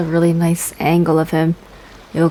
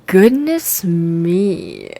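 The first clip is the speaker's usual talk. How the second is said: slow, hammed-up goodness me with a falling end; mock imitation; much slower than usual. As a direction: parrot the character, drawing goodness out. Streamer mocks character's line.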